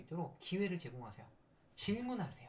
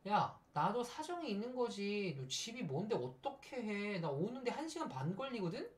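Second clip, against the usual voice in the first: acted defensive excuse; 3 semitones higher than usual. Late teammate excusing a long commute, mock defensive. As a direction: plead your case, mildly indignant.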